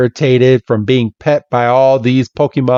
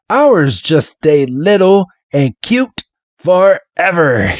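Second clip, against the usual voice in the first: sweet high voice; 7 semitones higher, slower than usual. Retold or imitated. Man sweetly explaining.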